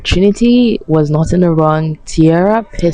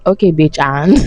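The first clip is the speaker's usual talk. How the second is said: dismissive retort. Retold or imitated. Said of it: "I was like".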